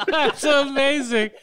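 high, drawn out through laughter; real amused laughter in the words; laughing. Real, not acted. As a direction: crack up while saying it, slowly. Laughs at a friend's story.

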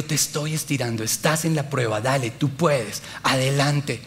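soft, low encouragement; message in the ear. Retold or imitated. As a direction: quietly urge on, slowing down, as God's voice. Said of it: "mensaje de Dios a mi oído".

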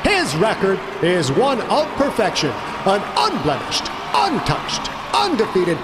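booming fighting game announcer. A narrator's reading. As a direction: build to a roar on the name. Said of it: "the announcer continued".

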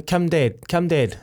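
a hint of a child ordering Dad; bossy child. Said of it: "just really bossing me around".

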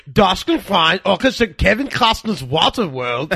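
mock German. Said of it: "all I heard was".

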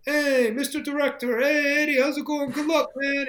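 high, loud shouts of encouragement; cheering him on. Retold or imitated. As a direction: imitate well-wishers hollering from down the street. Crew cheering him on, retold.

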